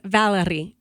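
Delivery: "Valerie." with the r tapped almost like a d. Shown as a demonstration. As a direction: say "Valerie." with a quick d-like r. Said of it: "It's like a D sound almost".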